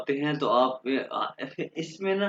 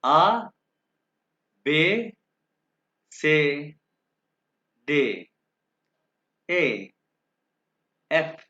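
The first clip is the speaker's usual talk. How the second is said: alphabet drill again; 2 semitones higher, 4 dB louder, much slower than usual. Shown as a demonstration. Teacher repeating the alphabet for students: loud, separated. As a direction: clear loud letters to repeat after. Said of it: "ये मैं दोबारा start करूंगा".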